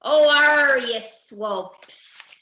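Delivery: howled challenge. Acted. Captain to the fleeing ship, howling challenge. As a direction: howl curses across the sea. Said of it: "howled Captain Abdul".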